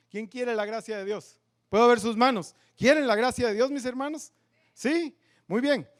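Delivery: loud, high call to raise hands; rally the room, hands up; calling out to congregation. Real, not acted.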